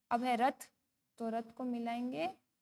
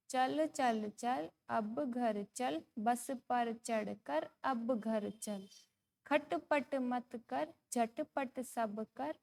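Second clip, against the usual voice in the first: slow, measured sing-song recital; poem recitation; much slower than usual. Shown as a demonstration. Teacher reading a poem to young pupils, slow sing-song. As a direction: read each word out slowly for children to follow.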